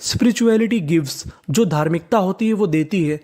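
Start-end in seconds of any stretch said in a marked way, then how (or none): 0.0-1.3 very slow, word by word reading; slow dictation. Shown as a demonstration. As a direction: read it out slowly so the class can follow. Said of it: "तो पूरा sentence क्या बना?". (कक्षा के लिए बहुत धीरे-धीरे पढ़ना)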